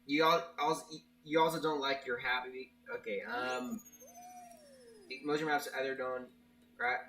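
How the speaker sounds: stumbling over words; halting restarts, tripping up; stuttering. Real, not acted. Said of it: "well, I'm stuttering a lot".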